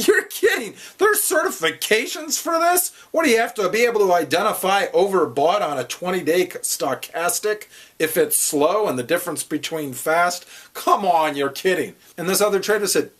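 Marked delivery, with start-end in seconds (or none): 0.1-2.9 much higher, louder incredulous laugh-talk; busting out laughing. Retold or imitated. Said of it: "I was just busting out laughing". 3.1-11.9 raised, incredulous ranting questions; mocking disbelief. Retold mocking disbelief at the certification.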